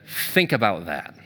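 low, slow and soft; wife pointedly making him think; wife quietly warns him about the scam; stern warning. Retold or imitated.

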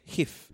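GIF said "hif"; Spanish G. Pretend. Co-host offering a compromise, GIF as Spanish "hif". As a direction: start GIF with a Spanish-style H sound. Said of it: "We can go Spanish".

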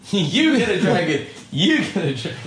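high, laughing game-show call. Real, not acted. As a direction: laugh while repeating it. Mocking giveaway call.

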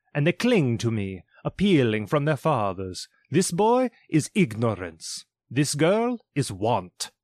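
a prophet warning of doom; solemn spirit warning. Acted. Spirit warns Scrooge about the children, solemn and rising.

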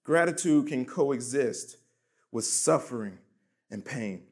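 slow, falling away with pauses between phrases; slow, deliberate restatement. Real, not acted. Preacher restating the key point to the congregation, slow and deliberate.

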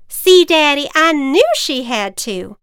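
put-on high, loud little kid; excited child voice.

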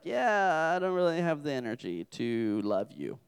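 mildly lazy, sinking in pitch; mock lazy. Lazy person brushing off a loved one, mock weary. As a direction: let the pitch sag as if out of energy. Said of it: "laziness is just self, selfishness. It's just like".

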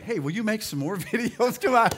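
high, loud mock plea; playful pleading. Dad to his daughter about school costs, playful pleading. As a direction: beg loudly, half laughing.

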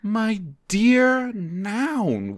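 slow, high, sultry greeting; sultry witch. Acted. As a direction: purr the name slowly. Witch greeting old flame.

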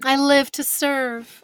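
slow, loud line, laughing all through. Real, not acted. Guest jokes after host's praise, laughing loudly. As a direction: laugh it out as a mock-grand reply.

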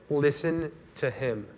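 slow, lightly voiced God speaking from the cloud; a hint of a solemn divine command, drawn out. God in the cloud commands the disciples, slow and solemn. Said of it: "a voice from the cloud said".

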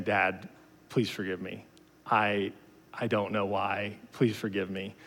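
understated, hushed apology to dad; retold tearful plea. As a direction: quietly imitate a distraught child begging forgiveness. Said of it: "crying and saying".

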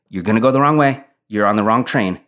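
animated, punchy mock warning; heated warning. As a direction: imitate a friend insisting, with a touch of heat. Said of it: "starting to get heated and animated".

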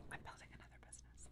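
fast secretive whisper. Real, not acted. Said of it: "I have to whisper it".

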